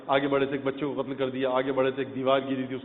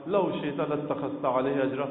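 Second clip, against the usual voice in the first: slow, hushed, imploring "لو شئت لاتخذت علیہ اجرا"; a soft, humble Arabic plea, slowed; meek, soft plea; slower than usual. Retold or imitated. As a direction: plead gently and slowly, as if afraid to object. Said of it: "بڑے دبے لفظوں میں، بڑی لجاجت سے، بڑے نرم لہجے میں".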